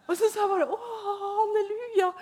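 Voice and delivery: high, laughing through the words. Real, not acted. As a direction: let the laugh carry the words.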